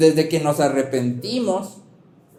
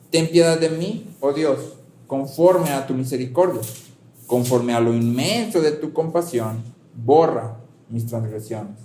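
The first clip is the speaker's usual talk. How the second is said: psalm reading. Real, not acted. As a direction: read the plea as a prayer. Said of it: "me gustaría leer el primer versículo".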